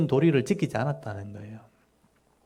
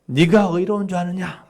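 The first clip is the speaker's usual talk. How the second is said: raised, accusing shout at Job; loud rebuke; 5 semitones higher than usual. Shown as a demonstration. Eliphaz rebuking Job, a raised accusing shout. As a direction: hurl the question at him. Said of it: "막 이렇게 큰 소리 치는 거죠".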